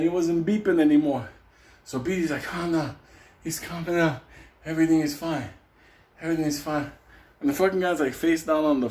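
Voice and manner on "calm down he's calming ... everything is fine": measured, calming voice in short phrases; reassuring. Retold or imitated. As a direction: soothe everyone, pausing between phrases. Beatty soothing after the fight.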